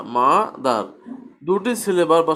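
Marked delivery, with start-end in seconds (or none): 0.0-0.8 "মা দার" as two separate syllables; split into syllables. Shown as a demonstration. Teacher recaps the two syllables, "মা দার" said in parts. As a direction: pause briefly after মা, then say দার in "মা দার". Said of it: "মা বলার পর একটু থামা".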